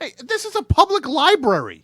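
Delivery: high, loud indignant yell; indignant shout. Acted. Host objecting to the brawl.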